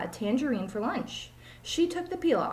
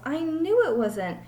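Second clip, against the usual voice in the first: silly teacher; slower than usual. Acted. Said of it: "said Missus Jewell's".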